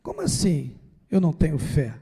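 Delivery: a hint of a timid disciple addressing his master; respectful plea. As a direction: ask Jesus gently, as if not to offend him. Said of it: "respeitosamente falar assim com Jesus".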